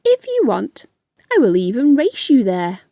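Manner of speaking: the unhurried snail, sure of himself; calm snail. Acted. Snail offers a race.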